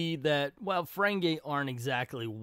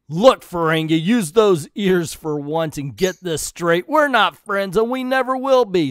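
cold rebuff; 3 semitones higher, 8 dB louder than usual. Acted. Decker rebuffs the Ferengi.

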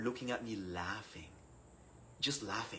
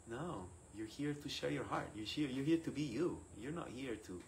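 softer, patient reassurance; gentle correction; 7 dB quieter than usual. Retold or imitated. Priest reassuring the protesting student, gently. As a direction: correct him softly and kindly.

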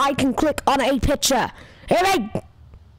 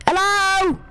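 calling out hello into the microphone; a loud hello down the line; loud, testing whether anyone hears; 5 semitones higher, 4 dB louder than usual. Real, not acted. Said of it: "I shouted way too loud".

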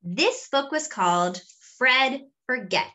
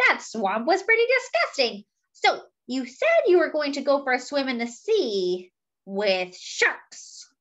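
lightly voiced sly monkey, a bit higher; cheeky monkey; 5 semitones higher than usual. Monkey teasing his elephant friend, lightly voiced and sly. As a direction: coax him like a sneaky little monkey.

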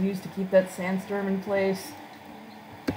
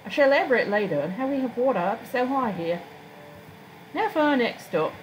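higher, formal guide voice; courteous town guide; 6 semitones higher than usual. Acted. Guide leading Freya through town, courteous formal voice. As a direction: present the town as a polite guide.

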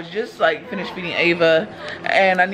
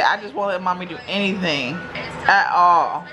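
voicing baby; 2 semitones higher than usual.

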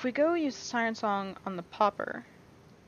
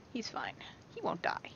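whispered reassurance to himself; hushed whisper; 4 semitones lower, 6 dB quieter than usual. Real, not acted. Player whispering that his friend is fine. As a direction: hush it, calming yourself down.

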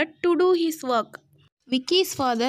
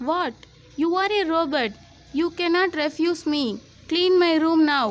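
put-on annoyed boy voice; 3 semitones higher than usual. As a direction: demand it like a spoiled kid. Vicky demands, annoyed.

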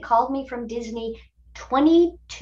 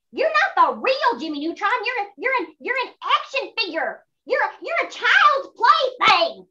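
mocking taunt; 11 semitones higher than usual. Toy taunting the hero, mocking sing-song. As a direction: rub his nose in it.

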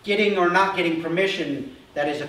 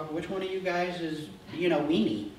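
laughing tease. Retold or imitated. Retold brothers' mockery.

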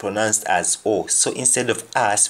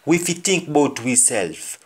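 Jamaican patois; 5 semitones higher than usual. Retold or imitated. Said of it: "Somebody says".

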